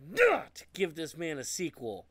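high, drawn-out exasperation on each key word; indignant rant. Real, not acted. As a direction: stretch the words in loud-edged disbelief. Ranting about missing sequel.

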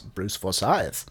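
slow, drawn-out plummy announcement; lightly voiced Matt Berry drawl; Matt Berry impression. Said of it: "and Matt Berry always says".

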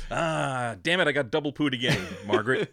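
hammed-up griping victim; comically fed-up husband; mock exasperation. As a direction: grumble in mock outrage to the wife. Acts out the trick's victim.

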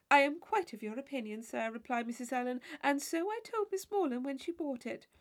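high, fluttery matron's voice, fretting; a silly chaperone worried over her gown; fussy Mrs Allen. Acted. Chaperone fretting to Catherine about her torn sleeve, high and fussy.

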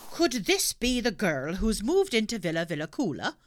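gruff officer's question; lightly voiced stern policeman.

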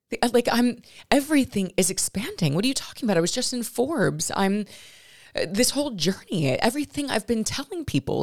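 reliving the shock all over again; agitated disbelief. Real, not acted.

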